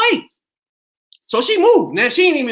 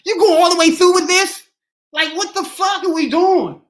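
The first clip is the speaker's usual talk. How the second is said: officer's voice; 9 semitones higher, 3 dB louder than usual. Retold or imitated. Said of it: "showed up to him looking like".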